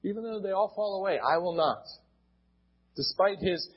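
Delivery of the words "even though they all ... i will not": quick, higher, quoting the bold vow; emphatic, retold. Preacher quoting Peter's vow to the congregation, emphatic. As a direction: echo Peter's bold insistence. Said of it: "Despite Peter's emphatic".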